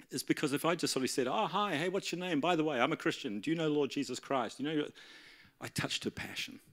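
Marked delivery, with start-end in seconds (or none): 1.3-4.6 higher-pitched over-friendly opener; mock eager greeting. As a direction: act out a blunt, chirpy evangelist's approach. Mock example of blunt evangelism.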